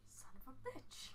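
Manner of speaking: softly mumbled curse; silent mumble. Acted. Kizza eyeing the woman and blanket, quiet mumble. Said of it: "she silently mumbles".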